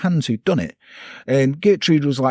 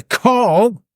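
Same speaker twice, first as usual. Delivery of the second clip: German accent; 9 semitones higher, 5 dB louder than usual. Shown as a demonstration. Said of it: "Shit German name".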